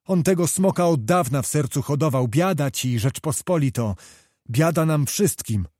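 a hint of despair in the voice; officer lamenting the prince's betrayal; desperate crying out. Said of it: "począł wołać rozpaczliwym głosem".

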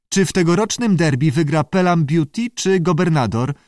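high, inquisitive creature question; squawky salamander. A narrator's reading. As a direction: ask eagerly as a talking salamander. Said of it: "zaskrzeczała". (wysokie, skrzekliwe pytanie salamandry)

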